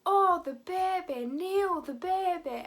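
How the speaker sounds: amateur impression with a broad Welsh accent; Nessa's accent. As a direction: exclaim it in a hammed-up Welsh accent. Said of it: "my best shot at Nessa's accent".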